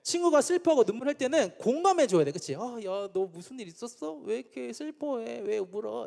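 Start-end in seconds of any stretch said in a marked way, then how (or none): 2.5-6.1 softly concerned friend; acted empathy. Preacher showing how a friend normally sympathizes, soft empathetic concern. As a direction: ask softly, as if sharing a friend's sorrow. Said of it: "이렇게 공감해 주는 게 일반적인 반응인데".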